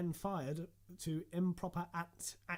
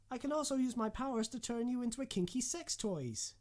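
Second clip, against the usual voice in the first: put-on sultry voice; 8 semitones higher than usual. Suggestive character voice.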